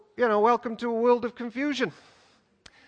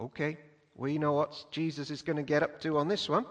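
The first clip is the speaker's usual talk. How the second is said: listeners going whoa; 6 semitones lower, 8 dB quieter than usual. Retold or imitated. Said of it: "would be like".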